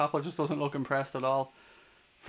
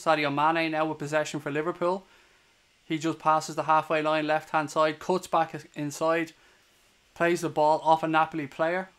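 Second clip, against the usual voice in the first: steady live match commentary; play-by-play. Acted. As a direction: call the game as it unfolds.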